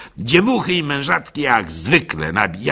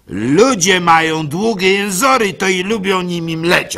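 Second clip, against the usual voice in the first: emphatic apprentice; 6 semitones higher, 5 dB louder than usual. Acted. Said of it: "odpowiedział".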